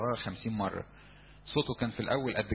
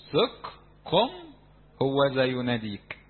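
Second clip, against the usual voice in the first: eager encouragement; 5 dB louder, slower than usual. Retold or imitated. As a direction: urge him up with excitement. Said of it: "قالوا له جملة". (تشجيع متحمس بصوت عالي)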